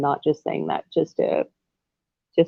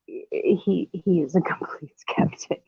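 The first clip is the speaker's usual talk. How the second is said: whispering; 6 dB quieter, slower than usual. Real, not acted. Talking about husband beside her.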